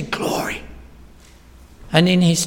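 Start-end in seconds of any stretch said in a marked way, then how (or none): 0.0-0.6 whispered glory. Acted. Preacher quoting heavenly worship.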